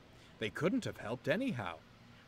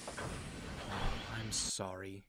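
sighed; much slower than usual. Acted. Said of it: "he sighed".

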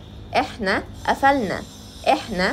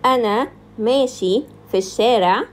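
loud demo; 5 dB louder, faster than usual. Shown as a demonstration. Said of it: "masculine form".

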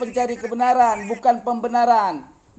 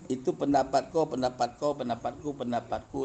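much lower and softer; soft aside; 10 semitones lower, 9 dB quieter than usual. Real, not acted. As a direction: mutter it half to yourself. Berbicara pelan, jauh dari mikrofon. (pelan setengah bergumam)

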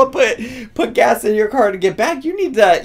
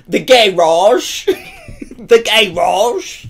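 laughing mock British garage. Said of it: "a cute little British accent".

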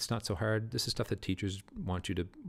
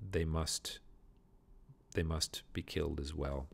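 Macbeth ordering Fleance killed. Acted. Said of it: "it breaks Macbeth's heart to say".

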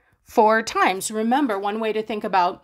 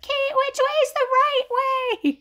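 much higher, slow mock whine of a student; whiny student; slower than usual. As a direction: stretch it into a high teasing whine. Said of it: "You guys are like".

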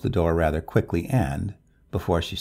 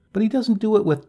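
higher, louder start, left hanging; breaking off abruptly; 6 dB louder, faster than usual. A narrator's reading. Neighbor begins on the grisly detail and stops abruptly. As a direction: cut off before finishing the sentence. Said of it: "began and stopped abruptly again".

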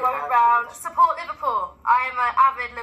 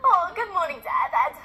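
higher at first, imitated northern English; northern English accent; 4 semitones higher than usual. Actress greets her device, mock northern English accent. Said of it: "I would be like".

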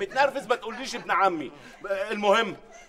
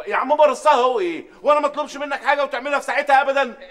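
scolding; 3 semitones higher, 7 dB louder than usual. Acted. Boss scolding assistant.

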